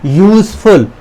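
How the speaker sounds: यूजफुल said with a clear य sound at the start; teacher sounding out यूजफुल. Shown as a demonstration. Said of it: "इसको बोल के देख".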